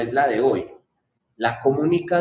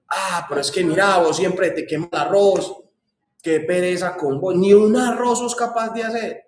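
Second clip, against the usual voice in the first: scolding wife; 4 semitones higher than usual. Retold or imitated. Wife scolding husband over burnt rice.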